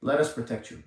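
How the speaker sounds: mock the government cooing at taxpayers; mock mama bear. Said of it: "They're trying to say".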